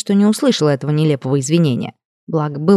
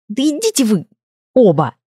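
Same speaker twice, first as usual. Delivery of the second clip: sharp, higher, furious retort; angry outburst; 4 semitones higher than usual. A narrator's reading. The witch snaps at the dean and her familiar, higher and furious. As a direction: throw them both out in anger.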